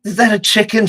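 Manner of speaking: high, loud mock ditzy voice; Kylie Jenner. Podcaster repeating Kylie's question about the pig, high loud imitation. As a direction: squeal the question, hammed-up. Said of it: "she says".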